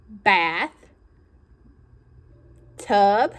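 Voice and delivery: "bath" and "tub" said slowly, with a long pause between them; split into two parts. Shown as a demonstration. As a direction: break the word into "bath"... "tub". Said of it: "show me the two parts".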